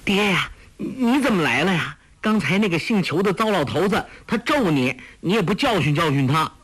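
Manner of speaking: high, quick, teasing daughter's voice; bright playful girl chattering to her father; Huang Rong's girlish voice. A narrator's reading. Daughter teasing her father on meeting him, high and quick. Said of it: "黄蓉笑道".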